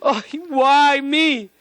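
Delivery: high, slow, drawn-out wail of why me, face turned upward; hammed-up self-pity crying out to heaven; a put-on pitiful plea, stretched out high; mock anguished lament. Shown as a demonstration. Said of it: "You'll never see a person go like this".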